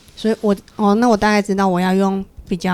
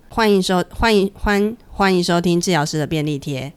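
throat voice. Shown as a demonstration. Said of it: "你可以学一下用喉咙说话的方式吗".

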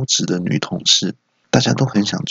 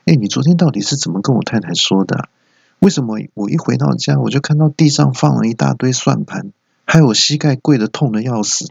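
mild scolding; 4 semitones higher than usual. Acted. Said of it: "兴师问罪".

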